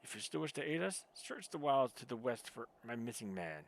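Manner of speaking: a lightly voiced haughty Ishgardian guard, faint French accent; lightly voiced stern knight of House Durandal. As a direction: play the proud sentry, curt and formal.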